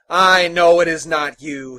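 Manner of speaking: tag. Acted. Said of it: "ready for the fray".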